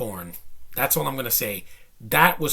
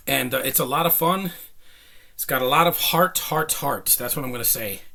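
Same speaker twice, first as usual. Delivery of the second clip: winded after climbing stairs; breathless, catching air between phrases; out of breath. Real, not acted. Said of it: "I know I'm out of breath".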